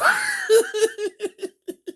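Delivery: a high, drawn-out laugh of disbelief; long high laugh. Real, not acted. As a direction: laugh helplessly at the caller. Laughing at the caller.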